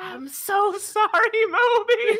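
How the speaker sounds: hushed, very high, very slow, drawn-out half-whisper. Half-whispering an apology to moby while in character: half-whispering in character. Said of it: "I whisper".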